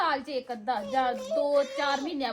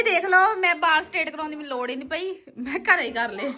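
laughing; 4 dB louder than usual. Real, not acted. Laughing tease loudly.

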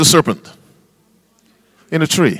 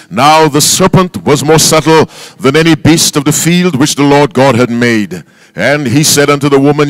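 loud, measured Bible reading aloud; scripture reading; 4 dB louder than usual. Acted. Preacher leads the congregation in a loud Bible reading. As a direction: read the King James text out to the church.

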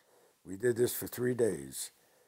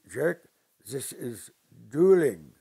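stern correction; 2 semitones higher, 10 dB louder, slower than usual. Retold or imitated. Uncle lecturing on dueling.

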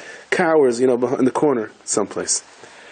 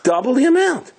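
higher, insistent complaint; indignant protest; 12 semitones higher than usual. Retold or imitated. Pirate protesting the bill, higher and indignant. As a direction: hammer home the overcharge.

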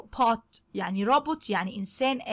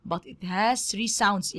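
slow teaching read; much slower than usual. Shown as a demonstration. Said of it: "teacher models English sentence".

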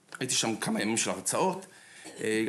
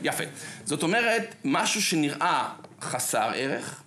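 ordinary delivery

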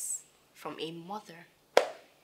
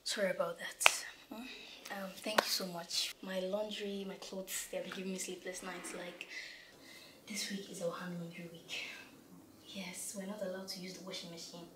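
whispering; 7 dB quieter than usual. Acted. Daughter whispering secret to maid.

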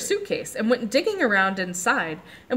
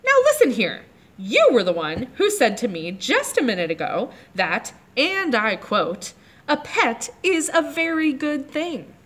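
snippy voice; 4 semitones higher than usual. Acted. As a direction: snap it at him like a scolding little girl. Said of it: "in a very snippy voice".

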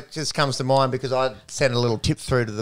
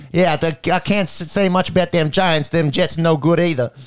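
put-on New York accent; 4 semitones higher, 4 dB louder than usual. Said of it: "You lost it towards the end there".

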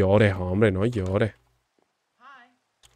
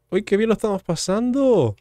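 much higher, sing-song fake delight; gleefully sarcastic, as if having fun; mock cheerful; 9 semitones higher than usual. Mock cheer while hurting villager.

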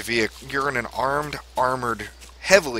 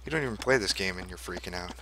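whispering; 2 semitones lower, 8 dB quieter, faster than usual. Real, not acted. Whispered teasing during tense moment.

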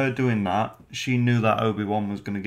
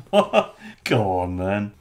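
startled what; 5 dB louder, slower than usual. Retold or imitated. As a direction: jump at it, then shrug it off. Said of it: "he's like".

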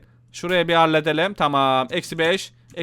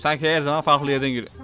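ordinary talk, nothing marked

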